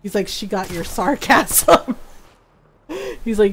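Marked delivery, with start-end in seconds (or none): 0.3-2.0 "sarcasm" slowly drawn out; teasing emphasis. Retold or imitated. Ron teasing about inherited sarcasm, slow pointed delivery.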